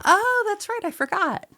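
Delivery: high squeaky voice. Pretend. Sudden high put-on reply.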